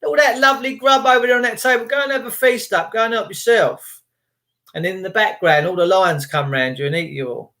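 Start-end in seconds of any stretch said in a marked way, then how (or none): 0.0-4.0 much higher, cheery coaxing voice; coaxing host. Retold or imitated. Luring people into the lion enclosure, higher and mock cheery. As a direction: lure them in like a jolly host. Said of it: "That would be like me saying".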